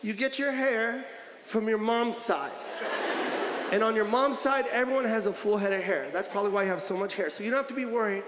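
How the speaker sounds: hurt, soft tone. Retold or imitated. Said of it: "just by my tone".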